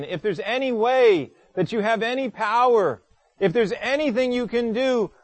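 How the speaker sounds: a desperate father pleading with Jesus for his son. Retold or imitated. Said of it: "what this man says to Jesus".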